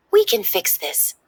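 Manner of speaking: Joy cheering up Sadness, high and eager; upbeat Joy. Acted. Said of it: "Joy told sadness".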